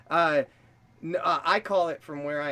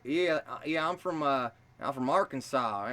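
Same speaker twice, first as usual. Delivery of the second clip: imitated nice Southern drawl. Shown as a demonstration. American coaching an Australian friend on accents, demonstrated Southern drawl. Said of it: "like a nice Southern".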